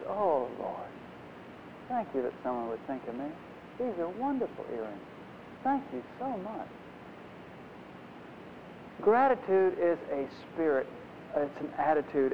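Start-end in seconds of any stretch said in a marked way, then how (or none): 0.1-6.7 quiet, tender thanks to the Lord; soft grateful prayer. Retold or imitated. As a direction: hush it like a humble whispered prayer. Rena's grateful prayer over earrings.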